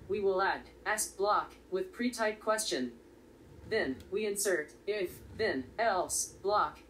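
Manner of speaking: flat robotic monotone. Real, not acted. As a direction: speak like a robot reading text. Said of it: "I apologize if my voice sounds like a robot".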